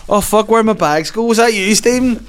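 mock panic. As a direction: play the caught man in a fake panic. Caught with bags down, panicking.

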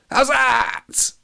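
high, loud appeal to the umpire; shout. A narrator's reading. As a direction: yell it up high like a cricket appeal. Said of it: "Alex shouted".

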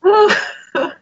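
worn out from laughing; breathless after a laughing fit; after laughing hard. Real, not acted. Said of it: "my stomach hurts from laughing now".

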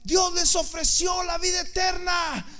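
high, loud, drawn-out call; calling out at the top of the voice; urgent shout. Retold or imitated. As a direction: shout it across to a running crowd. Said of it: "Y yo les gritaba".

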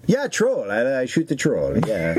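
put-on broken English in a lightly done foreign accent; a light mock foreign accent. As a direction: play a foreign director with a hint of an accent. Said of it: "I don't know what the accent is now".

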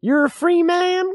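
lightly voiced suspicious old frontiersman; old man. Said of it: "I'm the old man".

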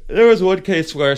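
mid-yawn. Real, not acted. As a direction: talk through a yawn. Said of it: "sorry, I'm yawning".

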